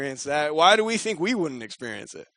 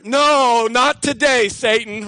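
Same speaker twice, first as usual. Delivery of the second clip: higher, louder defiant refusal; 4 semitones higher, 5 dB louder, slower than usual. Retold or imitated. Voicing David's inner defiance, louder. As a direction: slam the door on it. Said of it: "I wonder".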